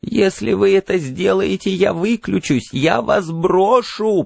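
high, urgent threat; piercing ringing voice. A narrator's reading. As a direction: threaten him as a tiny voice in his ear. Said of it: "пронзительно звенела в ухе мошка".

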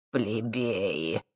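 low, soft contemptuous sneer; disdainful. A narrator's reading. Professor sneering at the thief, low and soft. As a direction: spit it out with contempt. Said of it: "поморщился профессор Курчевский".

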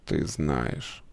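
тихий низкий шёпот дьявола; дьявол вкрадчиво шепчет, низко. A narrator's reading. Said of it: "прошептал дьявол". (дьявол шепчет Славе, низко и тихо)

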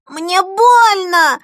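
put-on slow high child's shriek. Boy grabbed by the arm shrieking that it hurts. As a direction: shriek it like a hurt little boy. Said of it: "заверещал Зигги".

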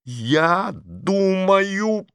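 very slow, cold robotic tone; metallic voice. Acted. Masha coldly silences Petrov, metallic. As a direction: freeze him out with iron in the voice. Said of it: "металлическим голосом сказала Маша".

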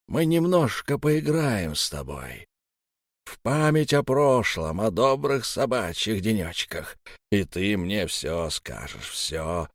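slow sinister playful threat; sinister taunting. Acted. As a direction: savour each menacing word.

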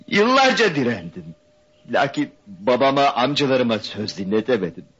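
high, pained pleading; anguished confession. Acted. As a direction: pour it out in distress. Tearful confession of being pressured.

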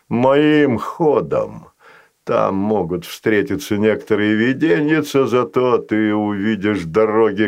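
a patient creature striking a deal. Acted. Fazanol voice.

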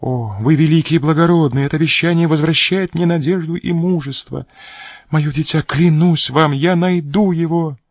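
high, loud cry of hope; overjoyed outburst. A narrator's reading. Countess thanks the filibuster, crying out high with joy. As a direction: pour out gratitude and new hope, voice soaring high.

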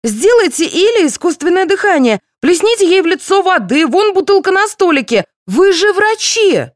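very high, loud frantic cries; hysterical shouting. A narrator's reading. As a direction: scream orders in panic. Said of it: "закричала Пещерина". (очень высокий истеричный крик)

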